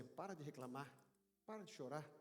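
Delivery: low, soft command; tender firmness. Acted. Jesus speaks to the worshipper, gentle and firm. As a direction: say it hushed and close. God's words to the listener.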